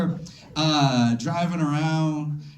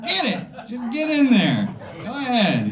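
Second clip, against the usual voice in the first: excited urging; 6 semitones higher than usual. Retold or imitated. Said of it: "I'm like".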